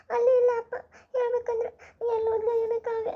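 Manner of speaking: a hint of crying; mourning the missing girl with a tearful voice. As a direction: ask it with a catch of tears. Grieving the lost girl.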